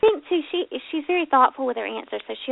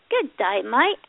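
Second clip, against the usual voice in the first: attempted Australian greeting; a light go at an Australian accent; slower than usual. Host imitating next week's Australian guest, Australian accent. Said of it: "she has that lovely Australian accent".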